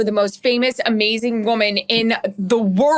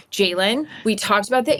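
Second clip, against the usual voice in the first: measured, chill interviewer address; calm. Retold or imitated. Reporter addressing Jalen after the game, deliberately calm. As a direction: put it to him evenly, keeping excitement down. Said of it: "I was trying to be calm".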